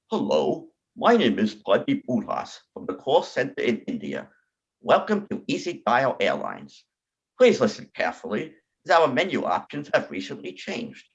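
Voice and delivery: lightly voiced Indian call center menu; a hint of automated phone menu. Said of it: "a recent phone call I had".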